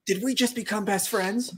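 high, laughing question; laughing excitedly. Real, not acted. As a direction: giggle it out with glee. Joking excited bonding moment.

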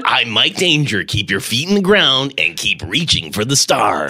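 mock radio sign-off; hammed-up countdown-host impression; Mike Danger. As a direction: parody an inspirational DJ catchphrase. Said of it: "I'm doing my Mike Danger impression".

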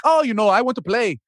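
attempted Canadian accent that misses; bad Canadian accent. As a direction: have a poor go at sounding Canadian. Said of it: "that was my worst Canadian accent ever".

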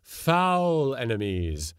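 fierce ghostly cry; cried. A narrator's reading. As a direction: spit out the hatred. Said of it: "cried Till".

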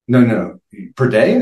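retold disbelief. Teacher questions officer's gun count, mild retold disbelief. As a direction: mildly imitate a teacher double-checking.

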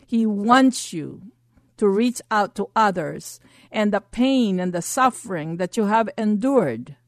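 forceful healing prayer with authority; fierce commanding prayer. Acted. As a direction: declare it like a commanding preacher.

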